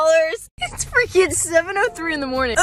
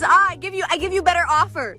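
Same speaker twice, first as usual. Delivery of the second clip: mock Indian accent. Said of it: "The Indian man's like".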